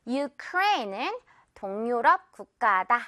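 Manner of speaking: "유크레인" inside Korean said yoo-KRAYN; English pronunciation. Shown as a demonstration. Teacher puts English pronunciation into Korean, "유크레인" as yoo-KRAYN. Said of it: "한국말 자체를 선생님이 좀 영어 발음으로 해줄게요".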